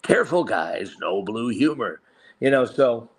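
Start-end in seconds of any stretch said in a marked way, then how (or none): 0.0-2.0 a gentle fatherly warning from a little blue elder; Papa Smurf impression. Shown as a demonstration. Impersonator showing off voices, a mild Papa Smurf warning. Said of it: "oh, this is Papa Smurf".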